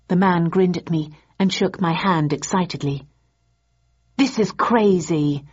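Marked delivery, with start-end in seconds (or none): 4.2-5.4 angrily. Acted. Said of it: "I said angrily".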